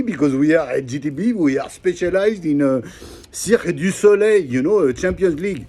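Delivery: put-on light French accent over English. French friend Jean explaining demain, light French accent. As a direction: play the French friend again, mildly. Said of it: "Έλα, μαλάκα, Jean".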